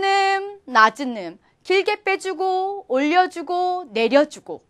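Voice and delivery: lightly chanted, 길게 빼주고 stretched high; singsong tone demo. Shown as a demonstration. Teacher telling learners to think of singing, singsong 길게 빼주고. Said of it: "노래를 부른다 생각하고".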